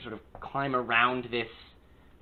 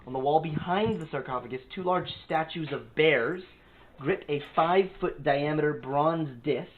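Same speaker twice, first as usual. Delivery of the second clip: measured read-aloud room description; game master's scene setting. A narrator's reading. Game master describing the tomb to players, measured narration. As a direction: set the tomb scene, lingering on key details.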